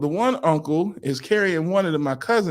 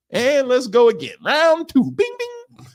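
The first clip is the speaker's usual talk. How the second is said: high-pitched round call, then bell dings; fight announcer; 8 semitones higher than usual. Retold or imitated. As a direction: announce the rematch like a ring caller.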